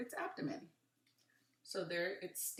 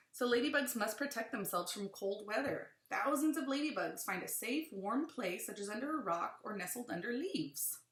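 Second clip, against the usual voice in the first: put-on reading to children; 4 dB louder than usual. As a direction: lively, clear read-aloud. Reads book aloud to children.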